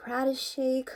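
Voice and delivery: hammed-up wailing fragments; tearful confession. A narrator's reading. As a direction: blurt it out in upset bursts. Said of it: "the whole story came tumbling out".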